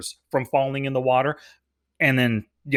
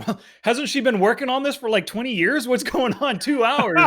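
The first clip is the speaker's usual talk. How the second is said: high-pitched, amused disbelief; incredulous; 8 semitones higher than usual. Real, not acted. Questioning the film's two-hour deadline with the co-host, incredulous. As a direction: question it in raised, baffled protest.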